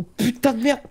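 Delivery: sudden high, loud curse; jolted, high-pitched outburst; startled swearing. Real, not acted. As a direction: yelp it out in alarm.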